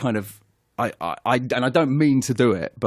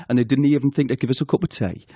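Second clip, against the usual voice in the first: broad Geordie, "tea" said as "tay"; Geordie accent; faster than usual. Retold or imitated. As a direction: imitate a complaining Geordie nan. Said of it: "and it goes like this".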